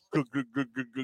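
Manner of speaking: mouth-made chugging noises; imitated glugging. Imitates drinking from beer can.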